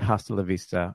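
usual speaking voice

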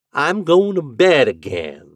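slow, drawling metallic voice. The landlady speaks from behind him before going back to bed: drawling, metallic voice. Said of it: "drawled the metallic voice behind him".

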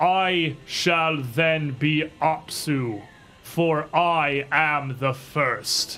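sudden thundering, booming lordly voice. Narrating a tabletop scene where a voice booms forth, in Apsu's booming voice. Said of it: "a voice just booms forth".

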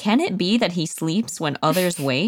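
ordinary talk

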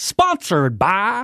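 announcer voice like a network broadcast. A co-host introducing a guest's sponsor, in the old CBS Sports voice. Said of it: "Remember that old CBS Sports voice?".

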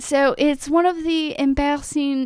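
slipped-in French accent. Trying to mimic a British accent, the speaker slips into a French accent. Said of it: "I just did French!".

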